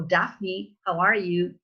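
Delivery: American-style greeting to Daphne; casual American pronunciation of the name; American accent. Acted. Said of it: "An American guy is gonna say".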